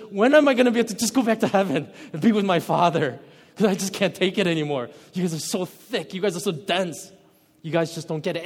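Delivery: quick, half-laughing exasperation; frustrated Jesus. Retold or imitated. Preacher imitating Jesus frustrated with dense disciples, laughing exasperation. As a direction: rattle off the complaint, fed up. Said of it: "so he gets so frustrated".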